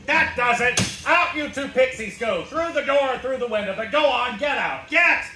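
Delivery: rising to a furious shout on the last get; angry throw-out. Acted. Bartender furiously throwing two pixies out of his bar. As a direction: bark them out the door, building to a yell.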